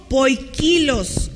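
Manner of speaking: "poikilos" con golpe de voz en KI; acento en la segunda I. Shown as a demonstration. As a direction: stress the second i of "poikilos", poi-KI-los. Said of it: "lleva acento en la segunda I". ("poikilos" acentuado en la segunda i, como "kilos")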